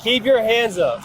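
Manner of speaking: loud, slow barked commands; commanding shout. Real, not acted. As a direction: order him firmly, word by word. Officer commanding suspect.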